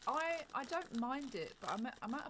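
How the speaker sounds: emphatic. Real, not acted. Emphatic protest.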